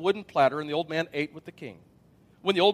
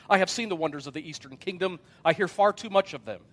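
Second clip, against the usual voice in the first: politely impatient. Acted. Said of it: "said impatiently".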